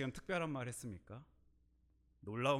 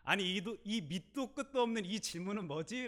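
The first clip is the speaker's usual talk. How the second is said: flustered inner thought; 8 semitones higher, 4 dB louder than usual. Retold or imitated. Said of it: "순간 제가 너무 당황했어요".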